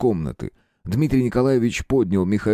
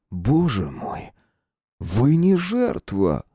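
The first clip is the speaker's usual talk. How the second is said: dawning realization; 4 semitones higher, much slower than usual. A narrator's reading. Detective realizes the truth.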